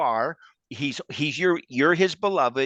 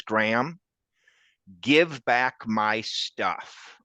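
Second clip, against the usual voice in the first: very slow, deliberate command as the Lord; lightly voiced Lord, each word drawn out; the Lord firmly asking for his things back, slowly; the Lord's gentle demand; 2 semitones lower, much slower than usual. The Lord speaks in Graham's dream.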